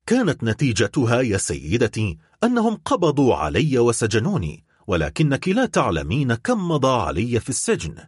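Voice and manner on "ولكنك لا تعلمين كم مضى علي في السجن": ordinary delivery, nothing marked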